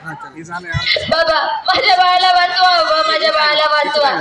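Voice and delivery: tearful pleading. Acted. Mother begging the healer to save her child, tearful. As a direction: beg the healer desperately for your baby. Mother begs for sick baby.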